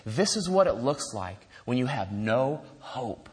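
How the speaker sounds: low, soft, slow despair; imitated wasted young man, drained of hope; wasted addict. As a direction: quote a hopeless drunk man, slowly and quietly. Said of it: "he's totally, completely wasted".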